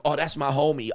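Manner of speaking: ordinary delivery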